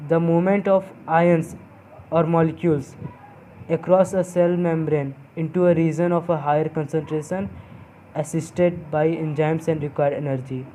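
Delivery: measured dictation with pauses for note-taking; slow dictation. Shown as a demonstration. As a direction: read out slowly, phrase by phrase. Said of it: "धीरे धीरे बोलूँगा". (धीरे-धीरे, रुक-रुक कर लिखवाते हुए)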